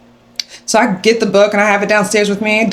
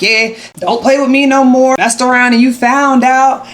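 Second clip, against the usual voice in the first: gloating brag; 5 semitones higher than usual. Retold or imitated. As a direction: crow that you won, lightly. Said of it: "talking to my friends on the phone like".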